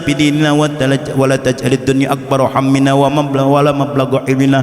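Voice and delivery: chanted Arabic prayer, measured and devout; preacher reciting the Prophet's prayer to the congregation; prayer recitation. Acted. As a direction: recite it like a prayer, partly sung.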